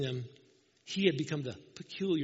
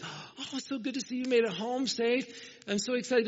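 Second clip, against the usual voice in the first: higher, gushing welcome home; excited welcome; 7 semitones higher than usual. Retold or imitated. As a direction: voice her delight at seeing him, pitched up. Young lady greeting returning soldier.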